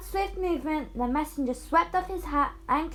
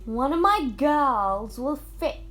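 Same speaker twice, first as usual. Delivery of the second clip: proudly; 5 dB louder than usual. Acted. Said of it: "she said proudly".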